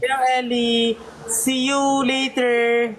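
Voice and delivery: slow, drawn-out greeting and goodbye; greeting Ellie. Real, not acted. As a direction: stretch each word out for a little listener. (mabagal at pahabang pagbati)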